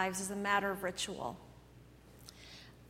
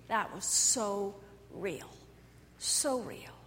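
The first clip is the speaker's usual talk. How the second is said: softer, slow, fading to a whisper; hushed awe; 4 semitones lower, 7 dB quieter, slower than usual. Pretend. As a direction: breathe it out in quiet wonder. Imagined congregant, hushed version.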